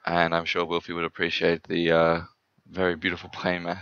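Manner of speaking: dry, lightly sarcastic praise; hint of sarcasm. Real, not acted. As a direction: say it with a faint ironic edge. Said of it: "I say with a hint of sarcasm".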